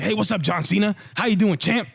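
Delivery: hammed-up cheery boss voice; mock Vince McMahon greeting.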